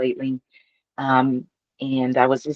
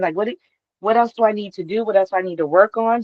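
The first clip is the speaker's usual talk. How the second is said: pleading with God; 6 semitones higher, faster than usual. Retold or imitated.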